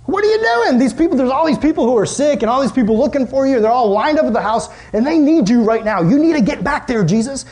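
high, urgent pleading; all worked up. Retold or imitated. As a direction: push Jesus to hurry back. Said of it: "all worked up".

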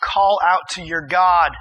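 slow, loud wake-up order; mad yelling captain. Acted. Angry captain orders sleeping Jonah to pray, loud and slow. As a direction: bark him awake, slowly. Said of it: "he yells at him. He's mad".

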